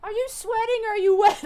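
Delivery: high, loud eager questions; curious kobold. Acted. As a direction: pepper her with excited little questions.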